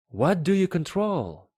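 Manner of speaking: high-pitched questioning voice; curious little prince. A narrator's reading. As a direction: ask it high, like a curious child. Prince asks, much higher.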